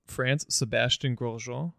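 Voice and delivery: slow, hammed-up French accent on "Sebastien Grosjean"; mock French accent. Host showing off a joke French accent to his co-host. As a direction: read the name like a bad French announcer. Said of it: "How do you like my French accent?".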